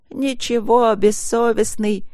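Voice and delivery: high, drawn-out tearful reproach; wailing. A narrator's reading. Wife wails at her shameless husband. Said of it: "провыла жена".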